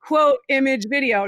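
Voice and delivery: laughing mock of a tidy formula; mocking rigid posting. Mom mocking curated influencer posting, amused. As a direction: recite it like a dull routine. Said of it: "I'm not like".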